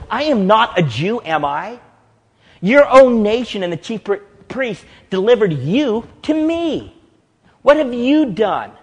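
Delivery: Pilate demanding. Acted. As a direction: press the prisoner hard, reasserting control. Pilate reasserting his authority to Jesus.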